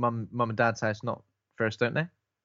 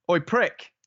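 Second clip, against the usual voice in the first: raised-pitch cheeky call; mock call upstairs; 5 semitones higher than usual. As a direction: call up to someone, lightly acted.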